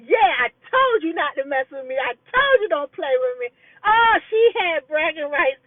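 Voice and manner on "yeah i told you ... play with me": gloating. Retold or imitated. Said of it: "she was gloating".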